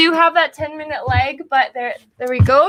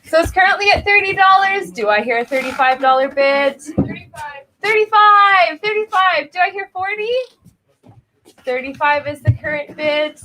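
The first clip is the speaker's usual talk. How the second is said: brisk auctioneer calling bids. Acted.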